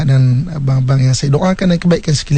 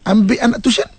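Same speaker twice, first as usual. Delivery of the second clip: bossy order, pitched up; wife orders husband around; commanding tone; 4 semitones higher than usual. Shown as a demonstration. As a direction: give it as an order. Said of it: "tu dah memerintah".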